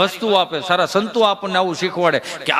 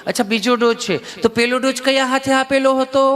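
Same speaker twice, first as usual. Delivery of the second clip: a lightly voiced gentle nurse; sweet nurse; 5 semitones higher than usual. Nurse sweetly asking the patient about his dose, lightly voiced. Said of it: "એટલું પ્રેમથી પૂછ્યું કે".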